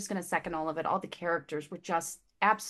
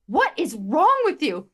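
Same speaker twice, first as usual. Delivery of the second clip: higher, louder, slow mock-concerned husband; husband's worried question; 7 semitones higher, 8 dB louder, slower than usual. Husband finding his wife crying over a book, concerned. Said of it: "he looks at me and he goes".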